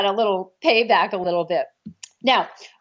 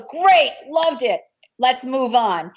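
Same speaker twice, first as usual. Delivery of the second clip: breezy approval; 3 semitones higher, slower than usual. Retold or imitated. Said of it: "So Sammo goes".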